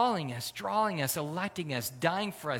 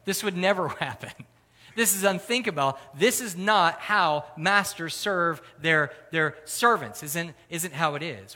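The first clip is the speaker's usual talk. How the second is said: shocked disbelief; 3 semitones higher, 7 dB louder than usual. Retold or imitated. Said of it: "sit there and go".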